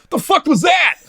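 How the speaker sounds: laughing high disbelief. Real, not acted. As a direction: ask it through laughter. Laughing at unexpected kiss.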